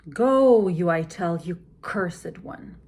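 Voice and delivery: sharp loud command fading to a whisper; commanding then whispered. Shown as a demonstration. Lady Macbeth ordering the spot away, loud then whispered. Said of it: "how I would approach".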